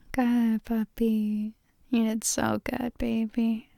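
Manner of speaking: ordinary talk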